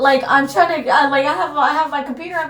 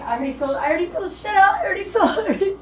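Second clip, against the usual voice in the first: starting to break into tears; tearful; 5 semitones higher than usual. Real, not acted. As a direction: voice rising as real crying creeps in. Breaks down telling painful story.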